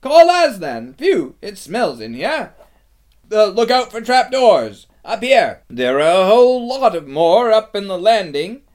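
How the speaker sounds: high, loud, eager calls; excited crying out. A narrator's reading. Liberated crowd searching the castle, excited high shouts. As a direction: call out high and urgent, like searchers shouting to one another. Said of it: "everyone's voices crying out at once".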